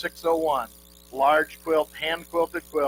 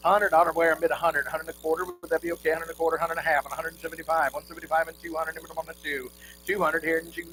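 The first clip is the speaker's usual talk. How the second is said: rapid rhythmic bid chant; auctioneer; faster than usual. Real, not acted. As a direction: rattle off the bids in a singsong roll.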